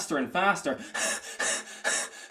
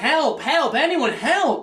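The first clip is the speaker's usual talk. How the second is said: frantic, panicked yell, high and loud; 9 semitones higher, 7 dB louder than usual. Retelling calling for help after a woman collapsed, retelling a panicked yell for help. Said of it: "so I start yelling".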